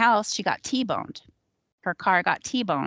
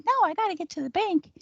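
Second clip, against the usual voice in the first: hurried refusal; 12 semitones higher, faster than usual. Retold or imitated. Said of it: "She's like".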